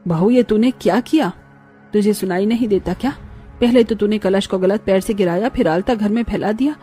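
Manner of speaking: acted, understated scolding; angry mother-in-law. Mother-in-law scolding new bride over spilt alta, mildly angry. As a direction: berate her with contained anger. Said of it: "माँ अभी बहुत गुस्से में है".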